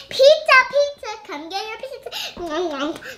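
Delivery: laughing, high vendor call; child playing pizza seller, loud and giggly; pretend pizza seller. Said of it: "that's what we play all the time".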